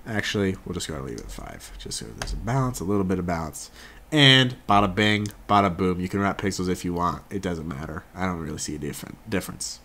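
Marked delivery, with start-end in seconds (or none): 4.1-6.0 playful flourish. Real, not acted. Flourish after finishing step.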